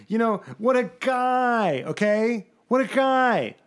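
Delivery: sarcastic. Pretend. Sarcastic praise of Alonso.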